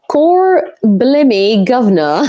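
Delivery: slow hammed-up mock Cockney; an American doing a bad Cockney accent. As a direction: drag out "Cor Blimmy" in a bad Cockney accent. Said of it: "What's Cor Blimmy or Blimey, governor?".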